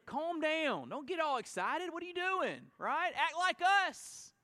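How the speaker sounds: hammed-up disapproving church member; mock scolding. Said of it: "religious folks get uncomfortable".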